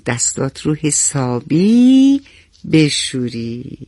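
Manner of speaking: mother gently reassuring her little son; smiling mother. Acted. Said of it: "مادر لبخندی زد و گفت". (با لبخند، آرام و مهربان)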